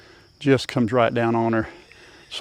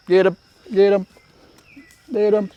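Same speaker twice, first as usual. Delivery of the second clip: high, excited cheer; 6 semitones higher than usual. Real, not acted. Farmer cheering the playing animals, high and excited.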